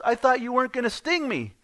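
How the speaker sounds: very high, loud protesting frog; indignant frog. Acted. Stung frog confronts the scorpion, indignant. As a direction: cry out as the betrayed frog, hammed-up.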